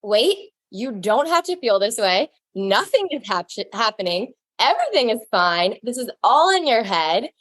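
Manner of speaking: lightly acted calming pep talk to yourself; self-soothing. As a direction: talk yourself down with stretched, swooping reassurance. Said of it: "and bring myself down".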